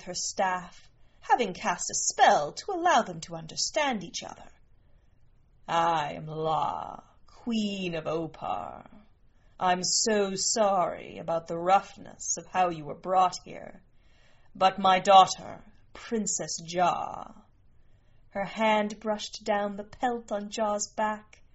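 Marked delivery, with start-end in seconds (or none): 5.7-17.3 lightly voiced regal queen, unhurried; a touch of stately, measured royalty; gracious queen. Queen greets the strangers brought to her, lightly regal.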